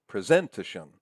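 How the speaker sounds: presentation as pre-ZEN-tuh-shun; stress on second syllable. Shown as a demonstration. Lecturer shows what we don't say, presentation as pre-ZEN-tuh-shun. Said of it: "We don't say presentation".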